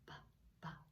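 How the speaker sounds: "Ba, ba" as two short, separate B sounds; short isolated "Ba", said twice for learners; letter B sound. Shown as a demonstration. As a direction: demonstrate "Ba, ba" as a phonics sound, with a pause between. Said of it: "let's talk about the sound that he makes".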